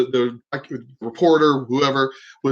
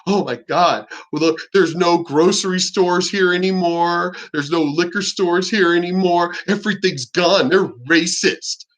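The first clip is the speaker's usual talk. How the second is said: lightly acted whiny grievance, last words slowed; mock complaining. Mocking rioters with no stores left, complaining. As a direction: imitate someone lamenting their losses. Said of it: "you could complain later".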